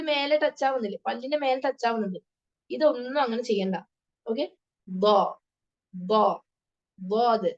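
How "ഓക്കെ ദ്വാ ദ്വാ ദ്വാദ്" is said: ദ്വാദ് built up slowly, tongue tip off the teeth; teacher modeling step by step; careful dad. Shown as a demonstration. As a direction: break ദ്വാദ് into parts, heavy. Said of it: "നാവിന്റെ അറ്റം touch ചെയ്യരുത്".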